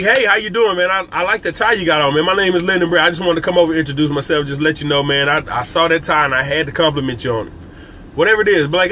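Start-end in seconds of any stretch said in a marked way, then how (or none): 0.0-7.5 lively, upbeat hello; a bright enthusiastic networking intro; excited greeting. Shown as a demonstration. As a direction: greet the stranger with energy and life. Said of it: "with some excitement, some life".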